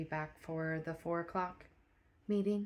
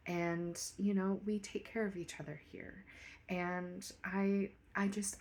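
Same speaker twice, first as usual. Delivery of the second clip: quiet private talk; 7 dB quieter than usual. Acted. Manager's quiet private meeting.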